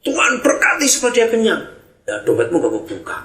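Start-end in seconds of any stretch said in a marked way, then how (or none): 0.0-1.6 mock pious prayer. Shown as a demonstration. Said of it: "Tetangga kita lapar".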